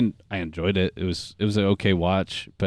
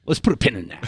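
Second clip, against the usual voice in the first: laughing quote; faster than usual. Retold or imitated. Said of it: "laughing explicitly at you going".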